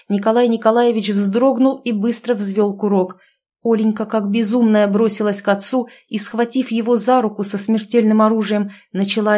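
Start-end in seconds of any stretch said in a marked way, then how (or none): none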